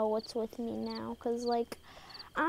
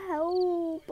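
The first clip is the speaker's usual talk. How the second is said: panicked cry for help; 4 semitones higher, 4 dB louder than usual. Real, not acted. Fleeing monster in game.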